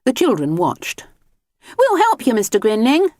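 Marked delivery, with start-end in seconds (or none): 1.8-3.1 put-on children's voices. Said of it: "they said".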